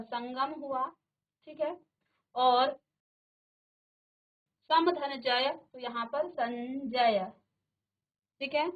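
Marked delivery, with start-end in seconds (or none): 6.3-7.2 संजय with a drawn-out palatal n before ज; teacher sounding out संजय; nasal demonstration. Shown as a demonstration. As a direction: stretch the nasal in संजय slowly. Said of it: "यों का उच्चारण आ रहा है".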